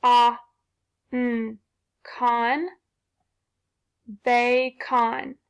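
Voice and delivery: Bacon with a full O, bay-con; sounding out. Shown as a demonstration. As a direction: tap out bay, then con, then blend into Bacon. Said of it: "tap the second syllable".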